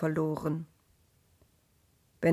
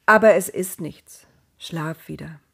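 reassuring; 5 dB louder than usual. Acted. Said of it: "um sie zu beruhigen".

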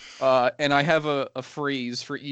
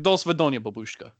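Russian accent. Shown as a demonstration. Showing his warm-up phrase, light Russian accent. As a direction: put on a bit of Russian. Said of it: "for the Russian one, I say".

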